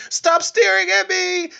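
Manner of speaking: very high, slow, eerie possessed voice; demon voice. Retold or imitated. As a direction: hiss it like the demon surfacing in her. Possessed girl turns demon.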